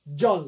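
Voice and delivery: জল set apart as its own syllable; separate syllable. Shown as a demonstration. Teacher finishing a word split for students, separate syllable. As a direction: say জল alone, after a clear break. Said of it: "ওই যে syllable ধরে ভাঙলাম".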